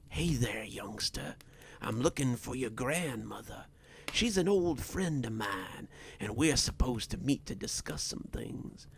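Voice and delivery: lightly voiced menacing stranger, partly whispered; understated, creepy politeness to a youngster; sinister stranger. Stranger addresses the boy.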